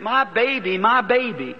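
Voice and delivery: retold screaming. Rescued mother calling for her baby, mildly imitated scream. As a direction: cry out for the child, held back. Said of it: "she was screaming".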